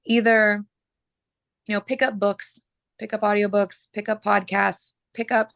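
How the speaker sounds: hoarse, clearing her throat. Real, not acted. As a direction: push through a scratchy, hoarse throat. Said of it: "I am just losing my voice".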